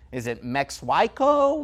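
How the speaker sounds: "Mexhuico" with a rough h; mispronounced Mexico. Shown as a demonstration. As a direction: say "Mexhuico" guessing the sound. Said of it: "not knowing how to pronounce".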